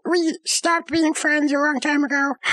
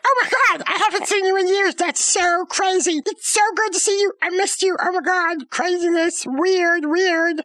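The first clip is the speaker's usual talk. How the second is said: overjoyed reunion; 2 semitones higher than usual. Retold or imitated. Old friend spotting the other on the street, gushing with joy. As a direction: gush like you just spotted an old friend. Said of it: "they were so happy to see each other".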